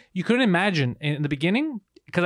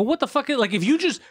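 retold anger; 10 semitones higher than usual. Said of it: "I actually got mad".

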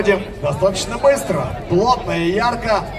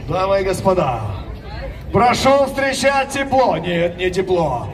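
boxing announcer; 3 semitones higher than usual. Acted. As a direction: ring announcer building hype. Red corner introduction. (объявление бойца на ринге)

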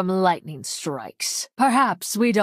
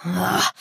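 short villain's groan; pained groan; 3 semitones lower than usual. Acted. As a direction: groan as if hit. Character takes a hit.

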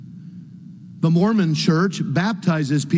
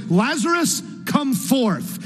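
high, drawn-out call without extra volume; mock loud cry; 10 semitones higher, slower than usual. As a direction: call the name high, as if summoning him. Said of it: "cried with a loud voice".

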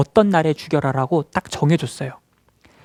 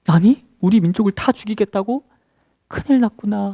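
higher-pitched acted alarm; alarmed disbelief; 5 semitones higher than usual. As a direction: act out hearing terrible news, voice lifted. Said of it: "깜짝 놀라겠죠". (깜짝 놀란 척하는 목소리)

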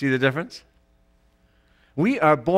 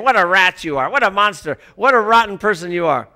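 condemning inner voice; 3 semitones higher, 5 dB louder than usual. Retold or imitated. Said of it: "that little voice in there saying".

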